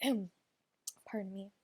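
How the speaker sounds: holding back a hiccup; hiccuping, trying to hide it; suppressing hiccups. Real, not acted. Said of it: "Oh, sorry, I have hiccups".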